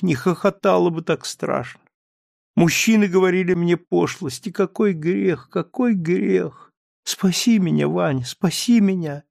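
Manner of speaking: a hint of sobbing woman begging forgiveness; sobbing like a child. A narrator's reading. Wife confesses to Laevsky, mildly tearful. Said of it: "она всхлипывала, как ребёнок".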